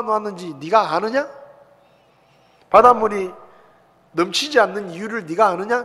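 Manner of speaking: a preacher voicing God's thundering challenge; rapid-fire questioning. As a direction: fire the questions at Job one after another. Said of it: "막 따발총을 쏘시는데".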